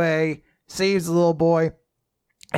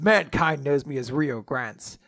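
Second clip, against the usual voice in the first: mock-grand proclamation, climbing at the end; hammed-up self-praise; boastful hero. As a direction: declaim it like a vain hero, stretching the finish. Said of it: "Uh, he just says".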